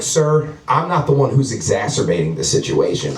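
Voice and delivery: measured, formally polite protest; job interview voice. Acted. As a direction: put on your job interview voice. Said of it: "I started talking in job interview voice".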